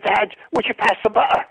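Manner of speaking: put-on son's line in a lightly English accent. Joke son asking dad in an English accent. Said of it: "in an English accent".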